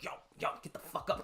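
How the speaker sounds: hissed warning under the breath; urgent whisper. Retold or imitated. Friend whispering a warning about the boss behind, urgent whisper. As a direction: whisper it fast so the boss won't hear.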